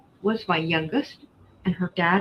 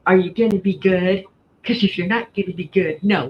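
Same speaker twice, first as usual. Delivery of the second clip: a louder mock-parent voice to a small child; talking to a small child; 4 dB louder than usual. To husband asking to come shopping, mock-parent scolding. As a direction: scold him like a little kid. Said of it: "I feel like I'm talking to a small child".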